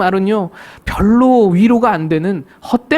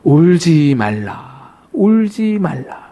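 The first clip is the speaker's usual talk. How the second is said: slow, gentle "don't weep"; Jesus gently hushing a weeping widow; tender comfort; 5 semitones lower, much slower than usual. Acted. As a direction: soothe a grieving mother slowly. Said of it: "이렇게 말씀합니다".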